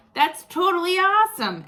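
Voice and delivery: put-on a boy's excited yell; excited shout. A narrator's reading. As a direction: shout it like a thrilled kid. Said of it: "Edison shouted".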